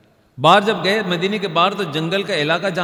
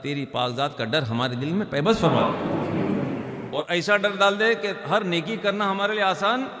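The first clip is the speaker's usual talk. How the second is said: prayer. Acted. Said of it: "اللہ سے دعا کرنی چاہیے". (دعا کا عاجزانہ لہجہ)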